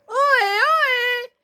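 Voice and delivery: high, slow drawn-out call. Acted. Hero calling out for any trainer on the road, drawn out. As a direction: call out across the route.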